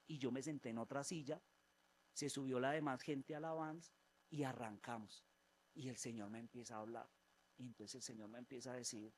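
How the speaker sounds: normal talking voice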